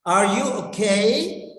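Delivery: "Are you okay?" with "okay" lifting; expressive rising question. Shown as a demonstration. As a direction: ask "okay?" on a clear upward glide. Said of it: "you have to express your feelings".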